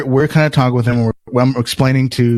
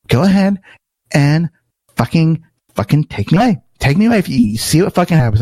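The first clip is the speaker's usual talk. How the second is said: sassy retelling; 4 semitones higher, faster than usual. Retold or imitated. Troublemaker daring security to have him taken away, sassy. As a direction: mimic a sassy, higher-pitched dare. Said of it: "he was getting so sassy".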